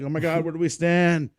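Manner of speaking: high-pitched imitation of flustered recruits; mock panic. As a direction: play lost recruits colliding in confusion. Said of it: "when dudes are just losing it".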